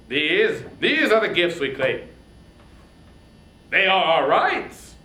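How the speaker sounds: loud, commanding king of the gods; Zeus's booming voice. Acted. King of the gods booming his claim to Troy. Zeus speaks to the queen.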